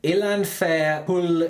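very slow, syllable-by-syllable attempt; halting read-aloud. Shown as a demonstration. Friend struggling through a long Welsh town name, halting read-aloud. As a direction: sound out an unfamiliar Welsh name piece by piece. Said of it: "have a go at reading this".

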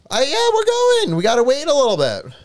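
panting after a run; out of breath. Real, not acted. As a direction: talk between gasps for air. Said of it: "Oh my God, I can't catch my breath".

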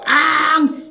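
put-on a short, high, loud fussy baby cry, drawn out slowly; imitated baby wail. Lecturer mimicking a frustrated baby to parents, high loud wail. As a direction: mimic an upset infant's whining wail. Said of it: "신경질을 내는 표현을 하는 겁니다".

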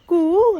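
a long drawn-out cuckoo "कू", slow and loud; cuckoo call imitation. Mother imitates the cuckoo for her son in a slow, loud call. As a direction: copy the cuckoo's call, stretching "कू". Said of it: "असा आवाज".

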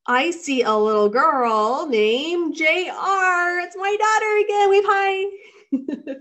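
high, loud delighted exclamation; excited greeting. Real, not acted. Reader spotting own daughter among the viewers, thrilled. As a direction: gush with real delight.

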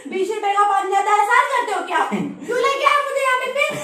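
indignant refusal. Real, not acted. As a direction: throw the offer back at them, fed up. Refuses water in a quarrel.

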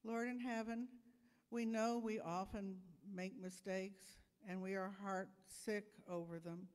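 calm, gentle prayer voice. Acted. Minister prays with children, gentle and calm.

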